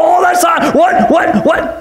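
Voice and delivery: mock flustered sputter; hammed-up indignant stammering; freaking out. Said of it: "we get all freaking out".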